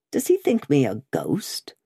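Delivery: whispered aside. Acted. Brother mutters about Cruncher, whispered. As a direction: breathe it under the breath.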